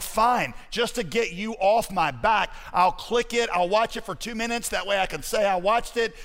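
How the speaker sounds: mildly hammed-up reluctant agreement; exasperated giving in. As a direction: give in grudgingly to a nagging friend. Imitates a reluctant friend giving in.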